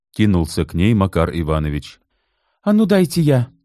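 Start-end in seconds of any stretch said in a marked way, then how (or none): 2.6-3.5 businesslike. A narrator's reading. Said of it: "деловито сказала Людмила".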